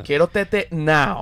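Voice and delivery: put-on slow whiny toddler repeat; whiny baby. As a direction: beg for it slowly like a small kid. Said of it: "le decía a la mamá". (bebé pidiendo tetero, arrastrando las palabras)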